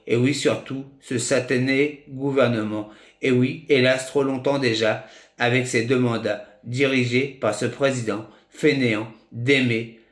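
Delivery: measured spoken-word poem, short phrases set apart by pauses; slam-style poem reading; poem recitation. Acted. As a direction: recite your verses line by line, evenly. Reads own poem aloud.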